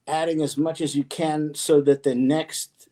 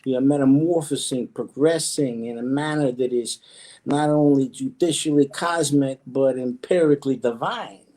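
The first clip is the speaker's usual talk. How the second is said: lightly squished, pompous voice; a hint of a squeezed character voice. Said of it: "where did that voice come from".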